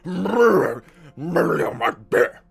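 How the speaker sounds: mock old lord with shaking head, slow. Mocking the old lord to his singer, lightly voiced and slow. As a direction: wobble it out like a trembling old lord. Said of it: "do that voice without shaking".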